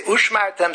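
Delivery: Ushmartem opening on an "oosh" sound; common misreading Ushmartem. Shown as a demonstration. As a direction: say Ushmartem with no v'ni at the start. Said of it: "people say".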